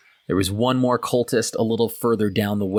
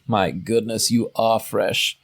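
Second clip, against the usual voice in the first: scoffing disdain; slower than usual. Acted. Tiefling scoffs at newcomer.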